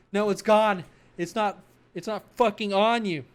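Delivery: loud jeering yell; mocking shout. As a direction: yell it back gleefully. Colleague shouting back.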